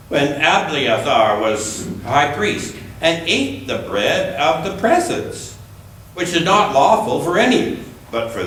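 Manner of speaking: measured, deliberate Bible reading; unhurried lectern reading with gentle emphasis; scripture reading. Acted. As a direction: read the Gospel to the congregation. Reads scripture passage aloud.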